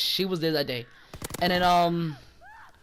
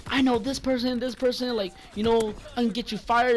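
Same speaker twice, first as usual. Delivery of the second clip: higher-pitched mock threat; salty customer imitation; 5 semitones higher than usual. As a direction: mimic a salty customer pulling rank, pitched up. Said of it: "when people get salty".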